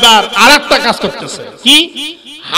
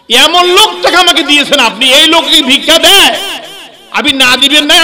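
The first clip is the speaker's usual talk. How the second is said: indignant beggar; 5 semitones higher, 4 dB louder than usual. Acted. Beggar berates the Prophet again.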